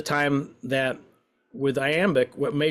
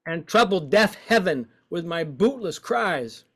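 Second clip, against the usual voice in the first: expressive woeful reading; 8 semitones higher, slower than usual. Shown as a demonstration. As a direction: give it full woe. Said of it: "we're playing with expression".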